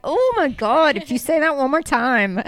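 mildly mock exasperation; fed up, playing up the complaint a little; exasperated retort. Retold exasperation at his catchphrase.

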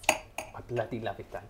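put-on South African accent, unhurried. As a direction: answer in a rough imitation South African accent. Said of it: "me mangling your beau-, it's a beautiful accent".

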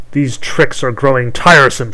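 put-on loud, irritable old hag voice; grumbling hag. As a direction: snap it out like a cranky witch. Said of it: "she grumbled".

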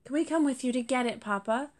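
a small kit begging to come along, lightly voiced; eager young kit. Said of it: "Cosmo asked eagerly".

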